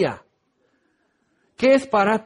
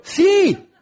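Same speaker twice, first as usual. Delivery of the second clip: mock exasperated yes; 10 semitones higher, 4 dB louder than usual. Blind man answers, exasperated.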